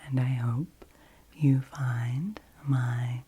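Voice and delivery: gentle soft-spoken voice; soothing, calm and intimate; soft-spoken ASMR. Real, not acted. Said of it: "about my soft-spoken voice".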